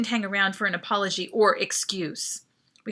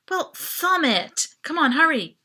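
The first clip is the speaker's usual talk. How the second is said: higher, louder urging; urgent; 6 semitones higher, 6 dB louder than usual. A narrator's reading. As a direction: hurry him, frantic. Panicked urging at locked door.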